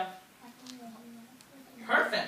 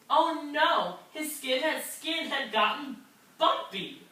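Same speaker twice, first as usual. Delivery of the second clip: dismayed; 5 semitones higher than usual. Acted. Dismay at bumpy skin.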